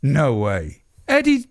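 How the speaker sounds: high, loud awestruck gasping; star-struck fan meeting a legend; starstruck. Acted. Starstruck local meeting the hangman.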